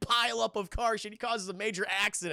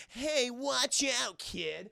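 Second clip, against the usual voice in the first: annoyed bystander; 5 semitones higher, much slower than usual. Retold or imitated. Bystander calling out to running John.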